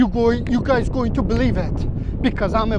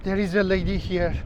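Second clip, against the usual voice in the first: lowered, hushed voice about the danger; hushed vlog narration; 3 semitones lower, 6 dB quieter than usual. Acted. Narrating a dangerous beach to viewers, hushed. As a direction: keep it low as if the guards might hear.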